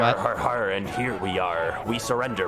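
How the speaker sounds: pirate voice. Acted. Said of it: "As my pirate voice is".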